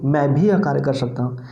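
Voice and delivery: भी made the prominent word of the sentence; stress on भी. Shown as a demonstration. Teacher repeating the example of special emphasis, stress on भी. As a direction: put the weight on the word भी. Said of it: "इसमें विशेष बल हो गया".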